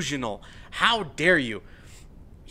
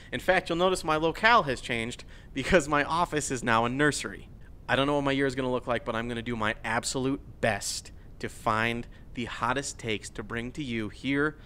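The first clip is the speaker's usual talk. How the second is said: sincere and soft; 4 semitones lower, 5 dB quieter than usual. Real, not acted. Serious personal news, sign-off.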